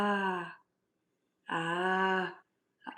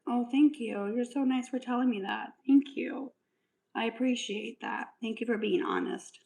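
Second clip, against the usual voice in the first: higher, sugary sarcastic thank-yous; mock sweet thanks; 5 semitones higher than usual. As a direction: gush fake gratitude at the troll. Mock thanks to rude commenter.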